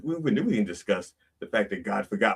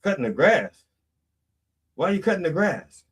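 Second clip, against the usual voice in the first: distracted mom; 7 semitones higher than usual. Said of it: "And she goes".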